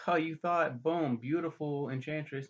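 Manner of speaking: spring the reveal on him with sass; mock gotcha. Voices enchantress's gotcha reveal.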